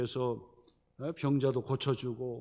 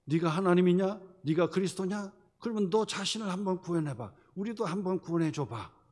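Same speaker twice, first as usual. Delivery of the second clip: louder taunt; 4 semitones higher, 3 dB louder than usual. Acted. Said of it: "꾸짖어 이르되".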